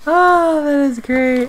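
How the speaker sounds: loud, high delighted cry; excited. Real, not acted. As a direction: burst out with delight. Delighted at gift.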